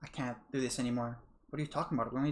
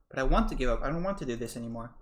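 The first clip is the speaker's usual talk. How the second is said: louder, pained insistence; desperate outburst; 5 dB louder than usual. Acted. Karma answers Rhea with a pained outburst. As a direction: push back hard.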